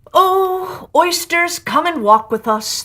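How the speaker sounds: high, loud coaxing call to the oysters; walrus calling out. Acted. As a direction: lure them in with a big cheery call.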